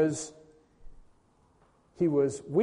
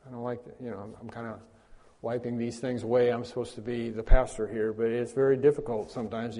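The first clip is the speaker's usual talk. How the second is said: choked up; 4 semitones lower than usual. Real, not acted. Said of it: "tears came to my eyes".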